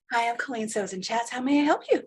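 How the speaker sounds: bright customer service greeting. Retold or imitated. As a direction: sound like a helpful call center agent. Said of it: "that technical support customer service voice".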